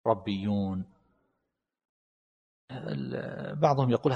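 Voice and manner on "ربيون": ربيون said rabbiyyun, the ra opened with "a"; fatha on the ra. Shown as a demonstration. Teacher demonstrating the fatha reading, ربيون as rabbiyyun. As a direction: pronounce ربيون as rab-bi-yyun. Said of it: "على هذا، على الفتح".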